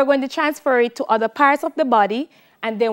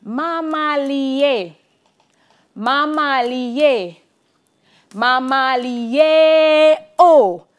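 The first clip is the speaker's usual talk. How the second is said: mama li e with the first sound held long; demonstrating the long and short sounds; long then short notes. Shown as a demonstration. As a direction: hold the long note, then clip the short ones. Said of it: "Now it changes here".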